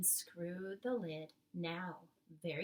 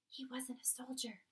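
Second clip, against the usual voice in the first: breathy unvoiced whisper, higher; 5 semitones higher, 5 dB quieter than usual. Sophie whispering to the BFG in the palace garden. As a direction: Sophie hushing her voice in the dark. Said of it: "Sophie whispered".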